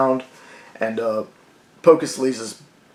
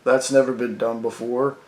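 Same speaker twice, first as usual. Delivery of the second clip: sarcastic dad. Retold or imitated. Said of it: "his dad's like".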